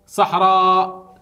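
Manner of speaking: صحراء said slowly with a drawn-out long aa; elongated vowel. Shown as a demonstration. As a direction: linger on the aa of صحراء. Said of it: "طلاب نمد الكلمة". (مدّ الألف في صحراء)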